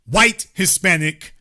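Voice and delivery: WHITE hit first, Hispanic trailing; stress on WHITE. Real, not acted. Defining their ethnicity for listeners, stress on WHITE. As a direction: lean on WHITE, not on Hispanic. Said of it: "emphasis on the word".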